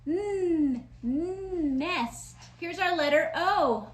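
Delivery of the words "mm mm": "Mm" hummed as n with an open mouth; N sound. Shown as a demonstration. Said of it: "but with our mouth open".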